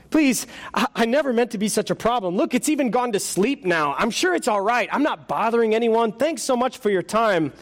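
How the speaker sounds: high, fretful ghost voice; nervous ghost voice. Acted. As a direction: play a flustered, embarrassed ghost. Ghost pleads.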